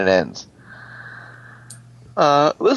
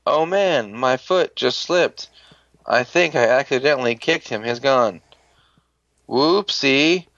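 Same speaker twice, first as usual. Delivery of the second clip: fake innocence; 2 semitones higher than usual. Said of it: "Like, being all obvious about it".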